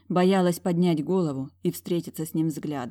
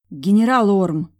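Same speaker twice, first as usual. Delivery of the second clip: breathless exclaim; 3 semitones higher, 9 dB louder than usual. A narrator's reading. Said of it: "выдохнула я".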